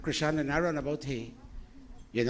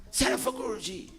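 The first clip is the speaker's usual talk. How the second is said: playful call; 10 semitones higher than usual. Real, not acted. Jokingly calls out for food.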